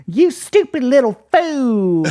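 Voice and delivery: high, slow odd-accented imitation; mock a bad actor's slipping accent, drawn out; dropped Russian accent. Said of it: "he drops his Russian accent".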